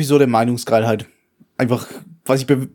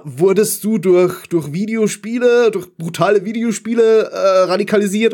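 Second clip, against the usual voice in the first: mocking question; 7 semitones higher than usual. Quoting a manifest FAQ question.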